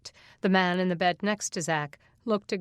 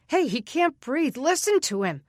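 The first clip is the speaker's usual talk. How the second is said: higher, louder alarmed call; panicked shout; 7 semitones higher, 4 dB louder than usual. Acted. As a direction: yell for attention across the ward. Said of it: "The panicked voice".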